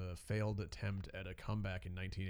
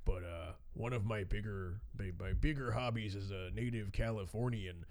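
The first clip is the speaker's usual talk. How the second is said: put-on Minnesotan accent. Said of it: "thick Minnesotan accent".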